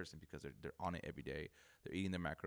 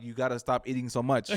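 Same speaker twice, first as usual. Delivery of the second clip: loud, higher, laughing through the words; laughing retort; 4 semitones higher, 11 dB louder than usual. Retold or imitated. Retelling blunt advice to dad about eating, laughing loudly.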